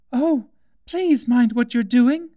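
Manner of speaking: high, loud, slowed plea of alarm; terrified cry. A narrator's reading. Alice begs the cook to stop throwing things, high and loud in terror. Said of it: "cried Alice ... agony of terror".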